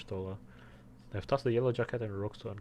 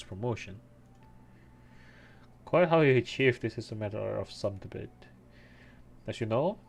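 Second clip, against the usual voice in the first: voiced NPC line; 4 dB louder than usual. Voicing NPC dialogue while playing.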